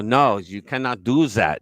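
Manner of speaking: put-on slow German-accented refusal; mock German officer, slowly refusing. German captor refuses prisoner's request, mock German accent.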